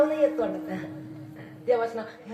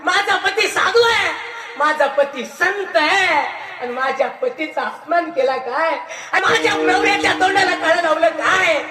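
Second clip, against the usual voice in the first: louder, rising indignant outburst ending in a curse; wife's outrage; 3 dB louder than usual. Retold or imitated. Wife sees her husband shamed, loud indignant cry. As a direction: defend her husband, voice swelling with anger. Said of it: "आली आणि पाहते".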